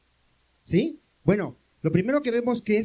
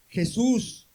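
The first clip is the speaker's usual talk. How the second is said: mildly raised call of the name; retold call; 3 semitones higher, 4 dB louder than usual. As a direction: call out Jesús from far off, only half loud. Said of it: "le gritaron". (llamado a lo lejos, medio gritado)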